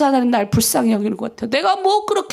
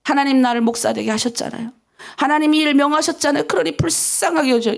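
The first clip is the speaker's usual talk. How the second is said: humble prayer. Shown as a demonstration. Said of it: "일단은 그것부터 해요".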